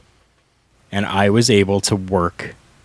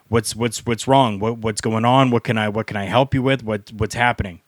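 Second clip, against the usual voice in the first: lightly voiced flustered helper, stumbling over repeats; mildly anxious to help, tripping over first words; flustered promoter. Promoter runs over to a summoned wrestler, mildly flustered.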